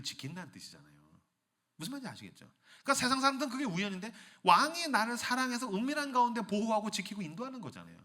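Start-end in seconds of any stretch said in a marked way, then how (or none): none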